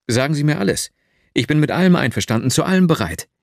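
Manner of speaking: fast, eager and delighted; the dreamer eagerly agreeing to everything; delighted exclaim. Acted. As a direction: tumble out the promise with joy. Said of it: "rief ich entzückt aus".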